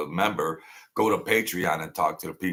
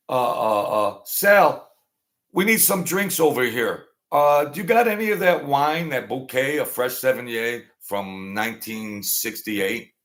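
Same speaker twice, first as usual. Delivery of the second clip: mock mob boss; 4 semitones higher than usual. Mock mobster calling for wine.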